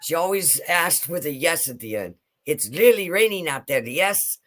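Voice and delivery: put-on light German accent, question tag yes at the end; German grandma accent. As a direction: imitate grandma's German English. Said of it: "I used to love my grandmother's accent".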